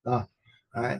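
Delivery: ordinary delivery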